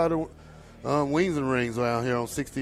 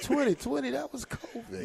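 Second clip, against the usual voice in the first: laughing; 12 semitones higher, 8 dB quieter than usual. Retold or imitated. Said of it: "I said".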